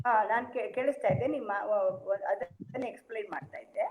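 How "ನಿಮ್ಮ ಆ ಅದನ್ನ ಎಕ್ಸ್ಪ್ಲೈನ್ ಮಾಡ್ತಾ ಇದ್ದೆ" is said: very soft, fading away from the mic; speaking too quietly to be heard; barely audible. Real, not acted. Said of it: "your voice is very low".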